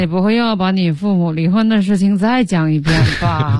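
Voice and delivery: too lazy to put in any stress; can't be bothered. Acted. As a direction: drone it wearily in one level line. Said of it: "就这个心情".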